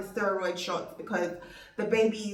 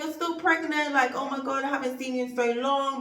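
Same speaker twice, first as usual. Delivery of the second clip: higher, bubbly delight; excited doctor; 5 semitones higher than usual. Retold or imitated. Doctor greeting her patient, excited and high. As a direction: gush like the happy doctor.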